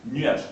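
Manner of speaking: "nuage" in one go, one syllable; "nuage" as a single beat, nuaj; syneresis. Shown as a demonstration. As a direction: glide quickly from u to a in "nuage". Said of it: "Donc en une seule fois".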